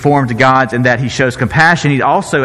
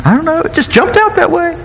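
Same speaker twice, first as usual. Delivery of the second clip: sheepish Aaron; 14 semitones higher than usual. Retold or imitated.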